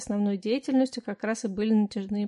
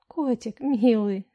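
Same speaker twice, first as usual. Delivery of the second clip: cooing; 4 dB louder, slower than usual. Acted. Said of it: "тактику и заворковала".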